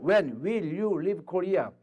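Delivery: very slow, word by word; slow teacher model sentence. Shown as a demonstration. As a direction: drill it slowly. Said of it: "너 언제 한국을 떠날 거야?".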